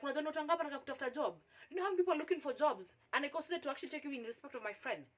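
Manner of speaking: suddenly angry. Retold or imitated. Boss retold lecturing an applicant, suddenly angry. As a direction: rattle it off as an annoyed boss. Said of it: "amekasirika all of a sudden".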